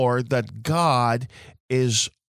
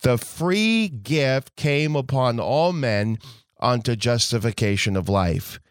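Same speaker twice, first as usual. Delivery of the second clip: scripture reading. Acted. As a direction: read the verses with solemn weight. Reads scripture aloud in sermon.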